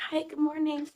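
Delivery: hoarse voice with a cold. Real, not acted. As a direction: talk through a sore, hoarse throat. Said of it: "excuse my voice. I'm recovering from a cold".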